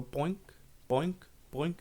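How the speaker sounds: springy, spaced-out boinks; imitated bouncing ball. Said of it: "hears the ball go".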